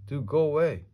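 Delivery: high, loud order to leave; exasperated dismissal. A narrator's reading. Man dismissing Amelia Bedelia after the filing, exasperated. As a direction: send them off, fed up.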